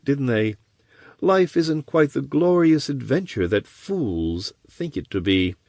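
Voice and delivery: a hint of mocking scorn; cynical taunt. Villain taunting the chained corsair, sneering.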